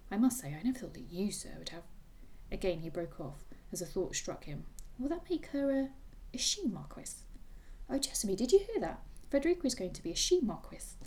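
reading a novel aloud with light character voices; lively book reading with hinted voices; story reading. A narrator's reading. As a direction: read the final chapter to a friend. Reads the novel's ending aloud.

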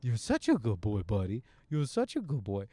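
soothing the dog. Retold or imitated. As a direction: coo gently to the dog while ashamed. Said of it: "with a lovely puppy going".

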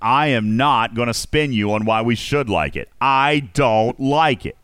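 ordinary delivery

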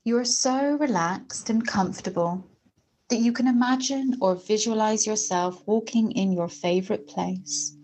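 measured meditation voice with long pauses; guided meditation. Acted. Host leading listeners through a confidence meditation, guided meditation voice. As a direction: guide the listener gently into relaxation, phrase by phrase.

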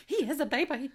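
high, loud mimicked wail; mock hysterical mother. Co-host mimicking the mother defending her son, mock hysterical. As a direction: squeal it as a playful imitation.

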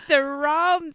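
drawn-out broad Australian vowels on "the rum"; broad Australian accent. Shown as a demonstration. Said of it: "I start off going like this".

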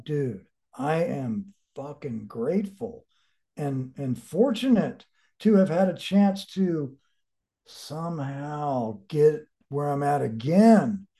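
slow, humble and sincere. Retold or imitated. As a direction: say it slowly, meaning it. Retold humble inner talk.

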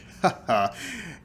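short put-on chuckle; mock polite laugh. Fox playing along with a racist remark, fake laugh. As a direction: laugh along as if it's okay, mockingly.

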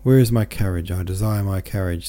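put-on old man demands his carriage, a touch of command; imperious, understated. Old man orders his carriage, lightly commanding. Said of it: "in a tone of command".

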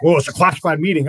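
loud, laughing retort; laughing mock reply; laughing through quote. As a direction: laugh while quoting them. Retold officers answering, laughing.

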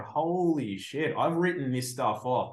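dawning disbelief, slowed right down; slow amazement. Retold or imitated. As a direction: marvel at it slowly. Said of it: "I'm literally just going".

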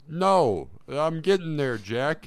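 irritated Joe Biden. Pretend. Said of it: "Joe Biden's head".

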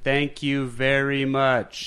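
slow, deliberate thank you; over-pronounce each word; overemphasized thanks. Retold or imitated. Friend thanking locals with slow overemphasized English. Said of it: "overemphasize the English".

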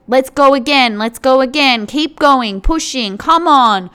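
a personal trainer nagging about the diet; pushy trainer. Retold or imitated. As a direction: drive the client on, gym-coach style. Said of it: "It's like that".

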